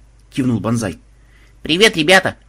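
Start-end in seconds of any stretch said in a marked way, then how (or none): 1.6-2.4 high, loud hello; perky, ringing greeting; cheerful greeting. A narrator's reading. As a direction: burst in full of life. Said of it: "раздался вдруг в машинном зале жизнерадостный голос".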